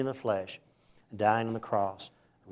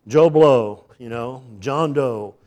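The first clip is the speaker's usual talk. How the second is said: jumbled name-calling; 11 dB louder, slower than usual. Retold or imitated. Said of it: "it sounded to me like".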